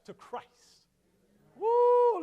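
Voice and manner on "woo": high, loud woo; a loud high cheer of delight; excited whoop. Real, not acted. Excited about Steps to Christ.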